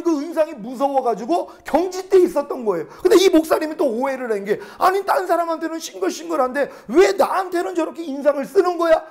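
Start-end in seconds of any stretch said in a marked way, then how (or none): 4.8-9.0 high-pitched imitation of an indignant complaint; mock scolding. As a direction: act out telling the clerk off, pitch up. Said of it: "하고 야단을 쳤더니". (높은 어조로 야단치는 흉내)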